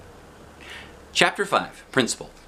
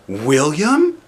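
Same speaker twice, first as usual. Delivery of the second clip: calling out; 7 semitones higher, 6 dB louder than usual. A narrator's reading. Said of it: "said Missus".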